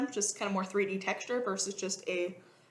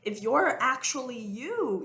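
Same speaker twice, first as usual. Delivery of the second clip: gentle teasing; 3 semitones higher, slower than usual. Retold or imitated. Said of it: "poke 'em really gently and be like".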